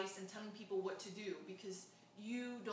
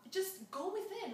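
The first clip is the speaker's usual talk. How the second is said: gentle; 11 semitones higher, slower than usual. Retold or imitated. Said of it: "and very gently".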